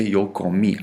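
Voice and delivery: "comí" stressed on its final í. Shown as a demonstration. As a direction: put the accent on the end of "comí". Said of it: "an I with an accent on it".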